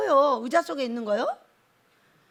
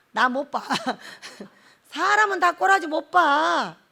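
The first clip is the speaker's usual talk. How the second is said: normal talking voice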